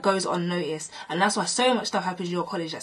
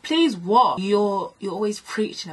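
sharp, raised challenge; indignant comeback; 3 semitones higher, 5 dB louder, slower than usual. Retold or imitated. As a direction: throw the plea back in disbelief.

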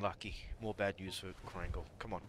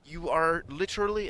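high-pitched, exclaiming imitation; put-on falsetto of a woman; imitating a woman; 9 semitones higher, 7 dB louder than usual. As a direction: push it up high and loud, mock outrage. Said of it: "'cause she swears".

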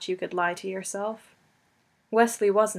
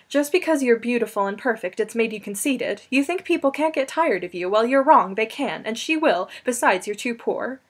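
louder, rising jealous outburst; angry; 2 semitones higher, 4 dB louder than usual. Acted. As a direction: lash out at him. Buttercup's jealous tirade.

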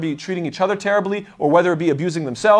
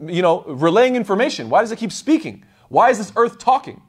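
mild mock panic; 4 semitones higher than usual. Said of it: "they're screaming".

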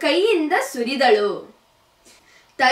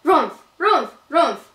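middle bear call; 3 semitones higher, 3 dB louder than usual. A narrator's reading. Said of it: "ಎಂದು ಕೂಗಿತು".

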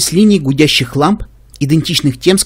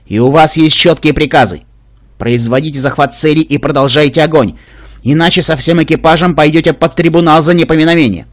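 stern commanding voice; 3 dB louder than usual. Acted. Угроза командующей по радио.

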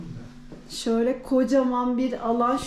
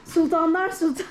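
excited reveal with a laugh; grand announcing, laughing; 5 semitones higher than usual. Real, not acted. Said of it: "havalı bir giriş yapayım".

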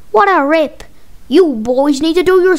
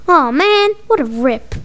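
ordinary delivery

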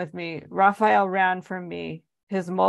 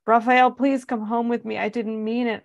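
forced calm; 4 semitones higher than usual. Acted. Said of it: "I said as calmly as I could".

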